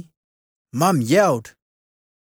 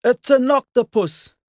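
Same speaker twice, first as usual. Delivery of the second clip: high, loud alarmed shout; Dad raises the alarm; 9 semitones higher, 4 dB louder than usual. Acted. Dad shouting to Mum about the octopus, alarmed. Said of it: "shouted Dad".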